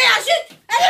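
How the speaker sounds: loud sharp hush; loud shush. Acted. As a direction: cut them off with a shush. Mother hushing kids.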